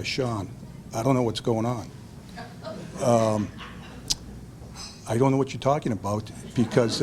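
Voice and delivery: mildly glum, flat disbelief on the phone; dour tone. Retold or imitated. Brother Steve on the phone, confused and denying it, in a mild mock dour tone. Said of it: "in a dour tone".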